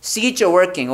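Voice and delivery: "See it, you're working" as "see-cher working"; linked ch sound. Shown as a demonstration. Teacher drills the phrase for students, linked pronunciation. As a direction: slide "it, you're" into one "cher". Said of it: "처로 발음 납니다".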